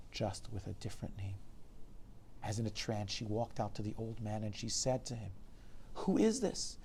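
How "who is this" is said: high, urgent demand; tense, high-voiced questioning; stunned question. A narrator's reading. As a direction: ask in shock, pitched right up. Stunned doctor questions old man.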